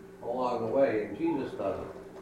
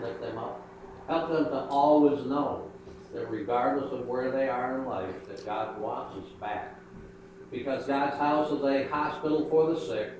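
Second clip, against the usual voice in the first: gentle prayer voice. Acted. Closing prayer.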